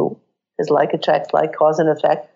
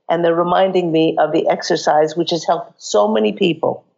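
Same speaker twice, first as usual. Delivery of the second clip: hoarse, croaky throat. Real, not acted. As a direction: talk through a croaky throat. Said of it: "Excuse my croaky voice".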